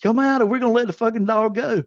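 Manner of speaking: high-pitched imitated warning; retold police threat.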